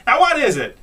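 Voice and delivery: put-on high, loud kid voice; kids asking. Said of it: "They say".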